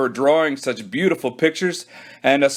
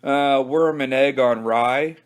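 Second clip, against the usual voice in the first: embarrassed; slower than usual. Acted. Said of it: "Billy looked embarrassed".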